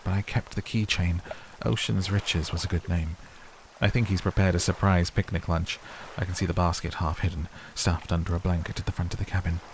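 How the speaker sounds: even storytelling read of a diary. Acted. Reading the wife's diary entry aloud, calm and even.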